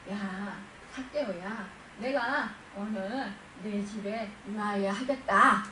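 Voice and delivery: slow, tender address to Zacchaeus; gentle smile. Acted. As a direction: speak slowly with a calm smile. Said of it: "잔잔한 미소로 그를 바라보셨을". (잔잔하고 다정하게 천천히)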